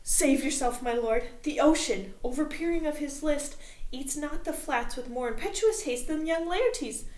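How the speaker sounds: loud, high and rushed warning; frantic messenger. Acted. Messenger warning the king of the mob, loud and frantic. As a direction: burst in shouting the alarm.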